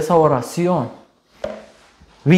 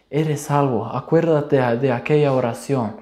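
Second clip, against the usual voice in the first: a softer, calm loving reassurance; voice of love; 3 dB quieter than usual. Retold or imitated. God reassuring the believer, soft and loving. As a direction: gently remind them they are saved. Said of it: "Una voz así de amor, tranquilidad".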